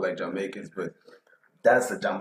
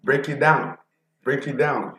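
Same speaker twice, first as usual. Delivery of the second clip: loud, high hype call; hyped; 5 semitones higher, 4 dB louder than usual. Real, not acted. Reactor hyping up the track. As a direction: fire it up.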